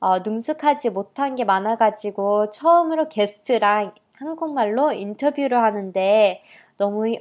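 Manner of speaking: Korean with an American accent; halting heritage-speaker Korean. Real, not acted. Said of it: "제가 솔직히 한국말이 되게 서툴고". (미국 교포 억양의 한국어)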